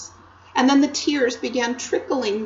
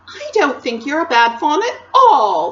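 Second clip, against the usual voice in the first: put-on higher, louder earnest girl; reassuring Lucy; 5 semitones higher, 6 dB louder than usual. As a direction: insist kindly, like a young girl. Narrator voices Lucy.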